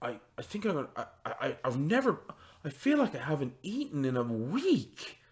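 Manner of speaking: soft, faltering, stammering voice; weak, pained farmer. Acted. Farmer doubled over in pain tells his friend, weakly. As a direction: falter quietly as if faint with hunger. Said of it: "He's like".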